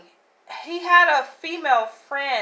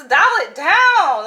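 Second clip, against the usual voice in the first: laughing scold; 6 semitones higher, 7 dB louder, slower than usual. Retold or imitated. Laughing while scolding the guy.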